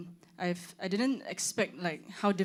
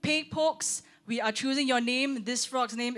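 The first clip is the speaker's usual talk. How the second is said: loud, raised announcer delivery; higher, emphatic result announcement; mock-official announcement; 6 semitones higher, 5 dB louder than usual. Real, not acted. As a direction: proclaim the verdict to the room.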